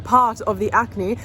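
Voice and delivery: lisping around a retainer; retainer in mouth. Real, not acted. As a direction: talk with a retainer in. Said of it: "I know I'm talking funny 'cause I've got my retainer back in".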